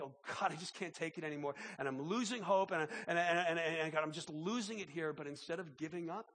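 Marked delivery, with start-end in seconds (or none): 0.0-5.1 acted desperate plea, building louder and stammering; crying out desperately. Preacher voicing the psalmist crying out to God, mock-desperate plea. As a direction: imitate someone at the end of their hope, without real tears. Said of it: "he's crying. He, he's like".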